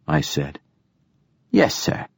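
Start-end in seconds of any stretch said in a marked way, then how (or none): 1.5-2.1 too smooth android. Acted. Android's deferential reply.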